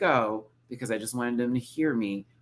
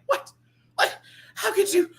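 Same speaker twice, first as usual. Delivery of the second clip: mock shock. Mock disbelief at dislike.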